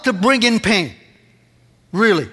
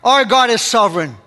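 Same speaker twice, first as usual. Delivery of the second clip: bold declaration; 3 semitones higher, 4 dB louder than usual. Retold or imitated. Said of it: "looks into the future and says".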